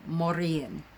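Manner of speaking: Morian with the R rolled off the tongue. Shown as a demonstration. A pagan vlogger teaching the goddess name, rolling the R. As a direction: say Morian in modern Irish, rolling the R. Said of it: "with an R, a kind of a, a roll off the tongue with the R".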